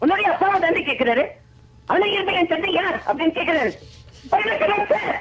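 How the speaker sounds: fast angry delivery. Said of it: "அடுத்து கோபமா".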